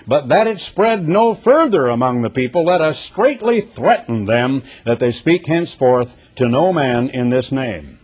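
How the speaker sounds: forceful, measured Bible reading; preacher reading Scripture aloud; emphatic Scripture reading. Acted. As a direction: proclaim the verse to a congregation.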